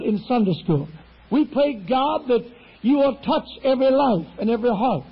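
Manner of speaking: steady, earnest pulpit prayer; fervent prayer. Real, not acted. Pastor praying over Sunday school and congregation, earnest prayer. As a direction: pray over the church in a measured, rising cadence.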